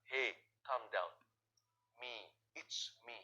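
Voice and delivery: very slow, low soothing voice; calm them, drawing each word out; Jesus reassuring the disciples, very slow and low; gentle reassurance. Acted. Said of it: "Makanya Tuhan berkata".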